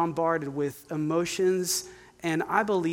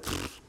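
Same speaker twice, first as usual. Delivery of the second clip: defeated pfft; 11 dB quieter than usual. Real, not acted. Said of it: "Yes, pfft came out of my mouth".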